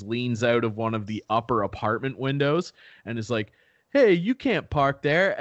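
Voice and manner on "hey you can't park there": higher, louder call in a lightly put-on accent; David Ortiz. Sports legend calls down from upper window, mock Boston accent. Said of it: "like, a thick Boston accent".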